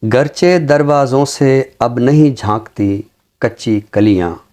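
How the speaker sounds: slow, measured ghazal recital with long pauses; poem recitation. Acted. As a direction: savour each line of the couplet, unhurried. (धीमी, ठहरी हुई ग़ज़ल की अदायगी)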